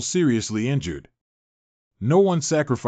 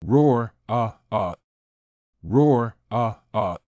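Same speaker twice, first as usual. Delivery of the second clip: a beast's roar trailing into growls; monster roar; 2 semitones lower, slower than usual. Acted. Bear mascot roaring at the audience, beastly roar.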